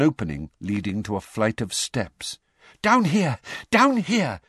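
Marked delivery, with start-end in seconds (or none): 2.8-4.4 high, louder breathless call; panting call. A narrator's reading. Mr Weasley leading Harry down the stairs, panting. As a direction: gasp it out running down the steps. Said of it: "panted Mister Weasley".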